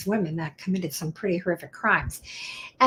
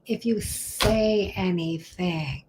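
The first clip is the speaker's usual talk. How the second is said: slow, deliberate delivery; slow and drawn out; 2 semitones lower, 4 dB quieter, much slower than usual. Shown as a demonstration. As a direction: stretch each word out slowly.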